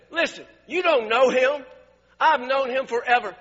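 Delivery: loud, heated dressing-down; retold losing it. Preacher retelling how he defended his pastor to a guest, loud indignation. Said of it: "I lost it".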